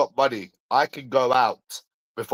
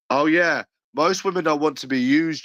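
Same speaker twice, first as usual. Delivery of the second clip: sarcastic mockery; 5 semitones higher than usual. Real, not acted. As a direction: parrot the claim with scornful false agreement. Mocking a claim about women.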